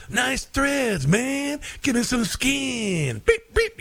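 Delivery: high, slow jive street hustler voice; Huggy Bear voice. Retold or imitated. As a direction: ham up a seventies street informant. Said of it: "Huggy Bear goes".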